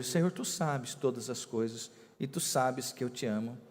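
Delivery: Peter answering softly, saddened and humbled; saddened reply. Acted. Peter answers Jesus's third question, quietly saddened. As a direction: let the sorrow sink into the words. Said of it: "Pedro entristeceu-se".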